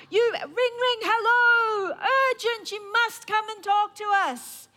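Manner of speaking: mock urgent calling. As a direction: wail it like a fake emergency call. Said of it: "they keep calling out".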